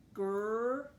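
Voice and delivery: "Ground" pulled apart into drawn-out sounds; sounding out. Shown as a demonstration. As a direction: stretch each sound of "Ground" with gaps between. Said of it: "go ahead and sound that out".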